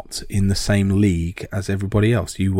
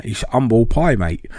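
put-on light Cockney accent, dropped h in "humble"; a hint of a Cockney accent; 2 semitones higher than usual. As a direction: say it like a London Cockney mate. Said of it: "sounds like a Cockney saying humble pie".

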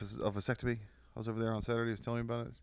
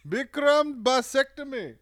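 much higher, loud, slow drawn-out call; mock announcer; 12 dB louder, slower than usual. Friend jokes about doctor, loud slow mock announcement. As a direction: announce it like a ring name.

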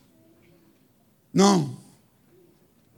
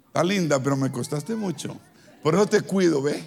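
tender; 4 semitones lower, 5 dB quieter than usual. Retold or imitated. Talks tenderly to his knife.

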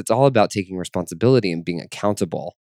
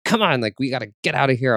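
pissed off; 5 semitones higher, faster than usual. Retold or imitated. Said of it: "I was, like, pissed".

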